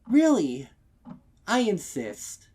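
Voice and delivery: high, loud, fast overeager pitch; forced eager offer. Acted. Mare insisting the stallion take any cake for free. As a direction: rush the offer with brittle cheer.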